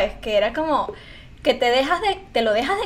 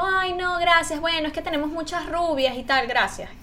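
lightly voiced, higher, softer polite brush-off; mock agency rejection; 4 semitones higher, 3 dB quieter than usual. Imitating the modelling agency turning her down, mock polite. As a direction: mimic a dismissive agency politely. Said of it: "me dijeron tipo".

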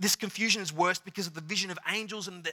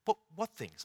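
lightly playful, knowing ask; a touch of teasing cynicism; smirking question; 3 semitones higher than usual. Retold or imitated. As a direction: feign ignorance with a hint of a smirk. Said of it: "there's a smirk that Jesus goes".

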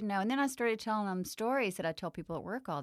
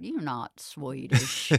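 laughing mock guy; much slower than usual. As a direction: drag out "You're not Swedish" while laughing. Guy calling out her accent.

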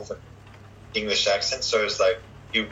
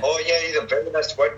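put-on high Vietnamese accent, word endings dropped; 6 semitones higher than usual. Showing how last letters get cut, Vietnamese accent. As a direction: cut off final consonants, Vietnamese-style. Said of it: "the Vietnamese would".

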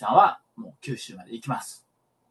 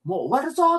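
標準語のセコンド; 13 semitones higher, 3 dB louder than usual. Retold or imitated. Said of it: "違う違う違う".

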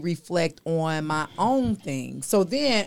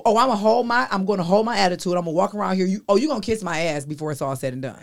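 sulky woman quoted; faster than usual. Retold or imitated. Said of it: "voicing a sulking woman".

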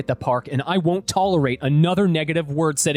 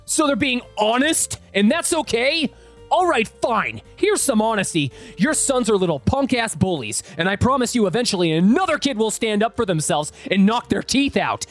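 losing his temper; 3 semitones higher than usual. Acted. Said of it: "I lost my shit".

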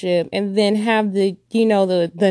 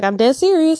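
put-on insistent child; 7 semitones higher, 4 dB louder than usual.

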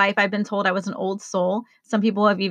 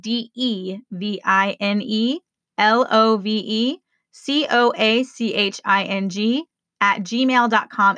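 spelled out letter by letter; slower spelling. Shown as a demonstration. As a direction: spell it carefully, pausing between words, for listeners. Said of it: "say that slower for you".

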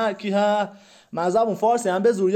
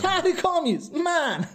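incredulous echo; 6 semitones higher, slower than usual. Acted. Accused man echoes charge.

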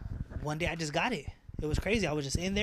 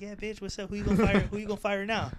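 higher, cocky gloating comeback; cocky taunt; 6 semitones higher, 3 dB louder than usual. Retold or imitated. Bragging to the coworkers who doubted him, cocky and gloating. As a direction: rub it in their faces, grinning.

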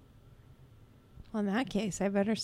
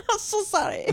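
mock Asian accent, laughing; 13 semitones higher, 3 dB louder than usual.

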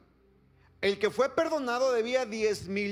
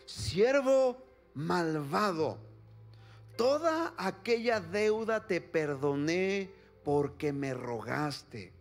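stern king; 4 semitones lower than usual. Acted. King rebukes wicked servant.

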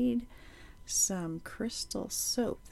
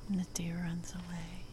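unhurried nature-walk narration with long pauses; guided meditation; 6 semitones lower than usual. Acted. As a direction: lead listeners along the path, one short phrase at a time.

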